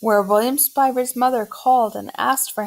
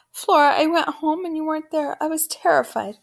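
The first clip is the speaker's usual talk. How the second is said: higher-pitched, worked-up relief and fright; distraught mother; 7 semitones higher than usual. Acted. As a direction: pour out the fear of a worried mother. Frightened mother finds missing daughter.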